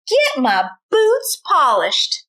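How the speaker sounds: bossy order. Acted. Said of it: "shouted Milton".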